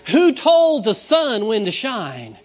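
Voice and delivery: loud, slow ringing question; preaching call. Real, not acted. Preacher challenging the congregation, loud and slow. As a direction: proclaim it to the whole room.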